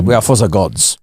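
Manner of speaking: low, mock-grave recitation; Cantona imitation. Co-host quoting the speech back, mock-solemn imitation. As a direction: intone it low like an oracle. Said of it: "When he went, when he went".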